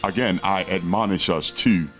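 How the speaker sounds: religious zealot. Real, not acted. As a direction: warn them like a street preacher. Closing call to repent.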